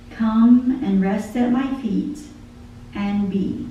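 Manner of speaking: lyrics read aloud like a poem; spoken song lyrics, devotional; poem recitation. Acted. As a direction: recite the song, measured and heartfelt.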